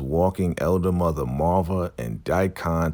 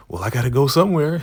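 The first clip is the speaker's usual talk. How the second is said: high, fast, louder line tipping into giggles; imitated giddy laughing; 10 semitones higher, 6 dB louder, much faster than usual. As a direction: blurt it high and giggle after. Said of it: "she's laughing".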